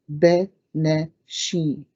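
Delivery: "beneshi" slowly with short vowels; slow pronunciation. Shown as a demonstration. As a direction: stretch "beneshi" syllable by syllable. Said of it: "short vowel".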